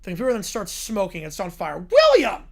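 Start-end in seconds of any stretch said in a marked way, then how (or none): 1.8-2.5 sharp, high yell of the name. Acted. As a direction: mom calling her son angrily. Mom yelling son's name.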